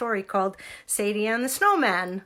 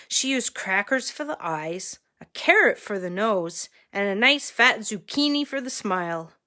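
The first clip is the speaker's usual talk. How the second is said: measured read-aloud with lifted key words; story narration. A narrator's reading. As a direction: read a picture book to children. Reads picture book to children.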